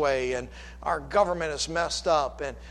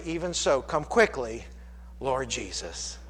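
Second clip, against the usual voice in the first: hushed prayer; 2 semitones lower, 4 dB quieter than usual. Acted. Quiet prayer quote.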